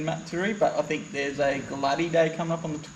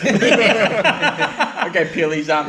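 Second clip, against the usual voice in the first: laughing; 4 dB louder, slower than usual. Real, not acted. Laughing joke about sticker.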